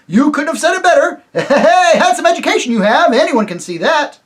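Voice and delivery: high, loud praise broken by a laugh; the voices laugh as they praise his education; laughing rustic chorus. Acted. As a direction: chuckle and cheer at once.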